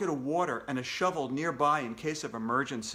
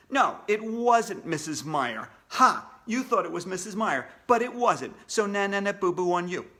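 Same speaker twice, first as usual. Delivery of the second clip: higher sing-song taunt; 3 semitones higher, 4 dB louder than usual. Acted. AJ mocking listeners who guessed wrong, sing-song taunt. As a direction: rub it in like a bratty kid.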